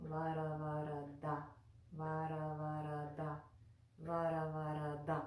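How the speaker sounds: "Vara Vara Da" evenly, with the d tongue at the front teeth; measured teaching repeats of "Vara Vara Da", dental final syllable. Shown as a demonstration. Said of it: "at the front teeth".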